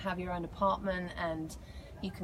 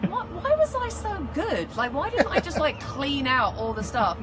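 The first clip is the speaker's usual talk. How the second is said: mock self-reproach; 8 semitones higher, 6 dB louder than usual. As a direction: wail it in playful regret, loud and high. Mock regret at not taking more.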